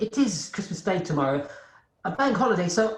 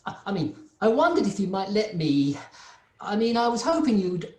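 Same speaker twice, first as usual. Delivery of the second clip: nervous hesitant request. Acted. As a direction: stumble timidly towards asking the boss. Bob nervously asks boss for leave.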